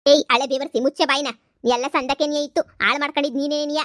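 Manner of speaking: loud snap at the daughter; angry scolding. Acted. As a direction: cut her off with a loud rebuke. (ಮಗಳನ್ನು ಜೋರಾಗಿ ಬೈಯುವುದು)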